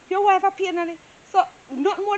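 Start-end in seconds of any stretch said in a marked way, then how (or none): 0.1-1.0 higher, louder mocking echo of his words. Worker echoing the old man's complaint, mocking. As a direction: throw his words back at him. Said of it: "So me say".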